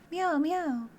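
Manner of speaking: high little kitten meow; playful cat mewing. Acted. Voicing the cat in game.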